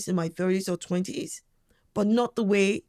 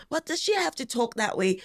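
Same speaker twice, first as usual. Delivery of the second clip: mock critic's higher voice; higher-pitched, lightly mocking complaint; disapproving critic; 4 semitones higher than usual. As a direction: imitate people tutting at how she talks. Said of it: "if there are people who go".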